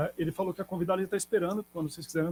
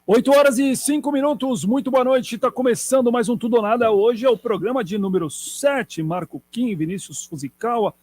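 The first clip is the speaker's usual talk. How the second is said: upbeat, louder on-air opening voice; radio announcer; 4 semitones higher, 6 dB louder than usual. Acted. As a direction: open the show like a DJ.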